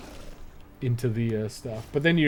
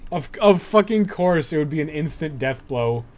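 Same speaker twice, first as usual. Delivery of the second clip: loud, rising frustration; exasperated outburst; 4 semitones higher, 6 dB louder than usual. Real, not acted. Player rages at sudden death blow, building louder. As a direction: build to an outraged yell.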